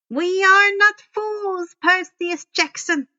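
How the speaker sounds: a Fury's contemptuous sneer. A narrator's reading. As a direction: spit the name with contempt. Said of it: "Miss Dutz sneered".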